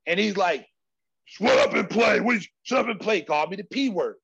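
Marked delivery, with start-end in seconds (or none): 1.2-3.2 imitated loud taunt; trash-talking opponent. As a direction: bark it like a scornful rival. Retelling opponent barking trash talk.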